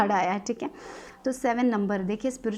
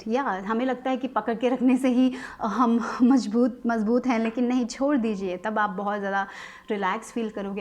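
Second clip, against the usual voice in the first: ordinary talk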